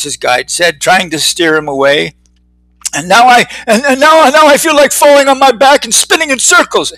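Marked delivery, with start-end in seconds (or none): 2.9-6.9 put-on old-timer voice.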